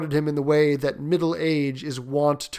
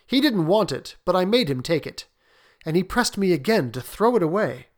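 slightly defensive, higher-pitched account; lightly voiced father; 4 semitones higher than usual. Husband explaining the payment to his wife, mildly defensive. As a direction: explain yourself in a raised voice.

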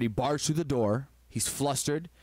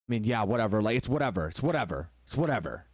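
lower, dismissive brush-off; 4 semitones lower than usual. Retold or imitated. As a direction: shrug it off, tired and low. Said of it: "brush the wife off".

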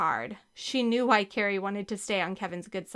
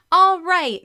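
high, loud drawn-out cheer; 9 semitones higher, 12 dB louder than usual. A narrator's reading. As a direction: cheer the team on at full voice. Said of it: "Mary Kate cheered".

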